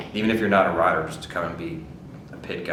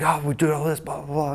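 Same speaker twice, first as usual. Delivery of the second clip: high-pitched imitation of fretting; hammed-up flustered complaining, pitched up; mock panic; 9 semitones higher than usual. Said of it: "in full-blown panic mode".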